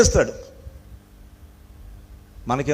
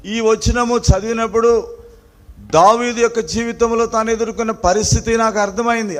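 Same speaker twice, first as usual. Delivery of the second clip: impassioned preaching; 9 semitones higher, 5 dB louder than usual. Real, not acted. Preacher telling the congregation of David's black day, impassioned preaching. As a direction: build the list like a pulpit refrain. Preaches a litany of dark days.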